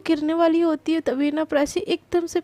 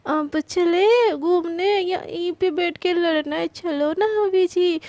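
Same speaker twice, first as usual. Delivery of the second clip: coaxing; 2 semitones higher, slower than usual. Acted. Prachi coaxing her husband.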